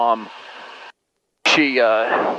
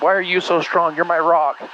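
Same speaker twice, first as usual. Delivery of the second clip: imitating bawling mom; 7 semitones higher than usual. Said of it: "She's like".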